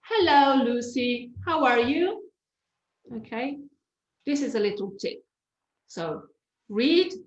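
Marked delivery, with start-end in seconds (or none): 0.0-2.3 bright natural greeting, pitch up; natural, lively. Shown as a demonstration. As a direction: say it like you mean it. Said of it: "cover it and then say it".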